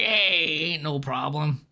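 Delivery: put-on drawn-out "hey" in a rough Boston accent; hammed-up horrible Boston accent; bad Boston accent. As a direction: attempt a Boston accent, badly. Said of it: "I wish I could do a Boston accent".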